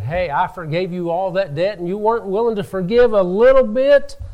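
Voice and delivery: retold scolding that climbs to an incredulous peak; indignant rebuke. Master calls back the unmerciful servant, mildly acted indignant rebuke.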